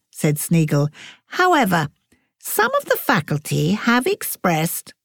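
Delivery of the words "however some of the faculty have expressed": put-on lightly raised rasping old don; cool, wintry welcome in a slightly higher voice; old professor greeting the newcomer stiffly; a hint of a sour old professor. A narrator's reading. Voices Sneagle.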